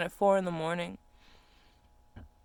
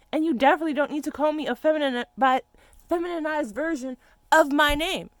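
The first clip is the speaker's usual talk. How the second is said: loud, higher, indignant; angry rant; 9 semitones higher, 6 dB louder than usual. Real, not acted. Telling people to stop renaming her, angry. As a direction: lecture them sharply and loudly. Ranting about nicknames.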